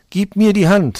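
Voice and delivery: high, loud grasping demon; shrieking demon. Acted. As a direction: shout it like a clutching demon. Third demon speaks to Mantau.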